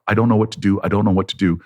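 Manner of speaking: helpless looping refrain; mantra. Retold or imitated. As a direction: repeat it evenly like an incantation. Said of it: "like an incantation, like a mantra".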